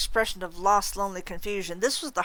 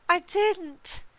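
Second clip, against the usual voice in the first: high, anguished ghostly wail; 12 semitones higher than usual. A narrator's reading. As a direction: wail it high in desperate denial. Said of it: "Agatha wailed".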